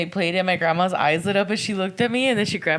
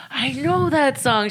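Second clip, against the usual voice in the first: put-on slow, higher, amazed old lady; like grandma lighting up in recognition; awed grandma; 8 semitones higher, 5 dB louder, slower than usual. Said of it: "and it's like".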